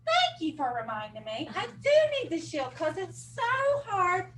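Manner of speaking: muffled behind a mask; through a face mask. Real, not acted. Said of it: "so hard to hear me with my mask on".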